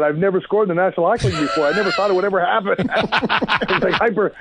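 high, excited rush of disbelief; giddy excitement. Retold or imitated. Player telling teammate about his first goal, high and excited. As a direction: gush like you just scored your first goal.

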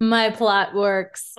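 very slow, gloating mock villain; hammed-up evil plot reveal. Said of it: "humanoid voice".

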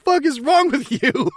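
high, drawn-out laughing disbelief; mock appalled. Reporter appalled at the cigarette lighter, mock disbelief. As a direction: stretch it out in comic horror. Acted appalled reaction to wound.

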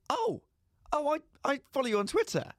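high, gushing fan squeal; suddenly starstruck and gushing. Retold or imitated. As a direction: gush like she's just met a celebrity. Starstruck call-centre girl.

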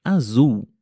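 azul with the L said as U, azuu; final L as U. Shown as a demonstration. Teacher demonstrates azul to learners, final L as U. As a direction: model azul with a long U ending. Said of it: "a cor azul".

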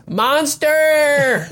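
high, long mock yell; angry yell. Dubbed recruit yelling at the instructor, angry high yell. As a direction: cry out as the dubbed pissed-off recruit. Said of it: "gets pissed and yells".

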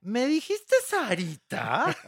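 high, slow, laughing disbelief; indignant question. Retold or imitated. Anel to the reporter, slow and laughing in disbelief. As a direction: drag it out, daring him to repeat it. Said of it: "Voltea a Anel y le dice".

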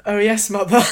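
high, loud cartoon baby; put-on mock-royal baby, projected; Stewie Griffin. Guest repeats the classic line, cartoon baby impression. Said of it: "my Stewie Griffin impression".

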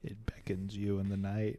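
breathy, spooky whisper; eerie whisper. Acted. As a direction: whisper it like a lure in the dark. Spooky lure of sewage tank.

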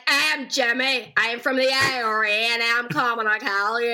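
put-on slow, overdone TV Irish accent; caricatured stage-Irish accent, drawn out; bad Irish accent. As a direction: ham up a terrible Irish accent, dragging the words. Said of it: "so many bad Irish accents on television".

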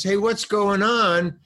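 high, stretched-out call; imitated cinematographer. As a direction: call over to a colleague, high and slow. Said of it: "the cinematographer says".

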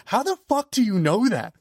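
high mock-stunned outburst; stunned disbelief. Musician hearing fan knows his pseudonym, stunned and high. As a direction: play his jaw-drop double take.

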